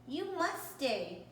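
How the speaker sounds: high, pleading call, slow on the first words; shouted plea. Acted. Family calling after the runaway cat, pleading shout. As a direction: beg the cat not to leave. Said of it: "we shouted and cried".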